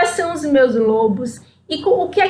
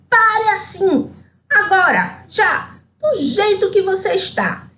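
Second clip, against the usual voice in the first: higher, slowed exasperated order; fed-up command; 5 semitones higher than usual. Acted. Chapeuzinho fed up orders the wolf to freeze, exasperated. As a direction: tell him off, out of patience. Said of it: "encheu a paciência e disse".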